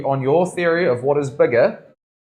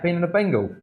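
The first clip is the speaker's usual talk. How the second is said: a bit higher, broad Aussie vowels; Aussie twang; 5 semitones higher than usual. Pretend. Tattooist nails the Aussie twang for the client. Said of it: "See, that's, that's perfect, eh?".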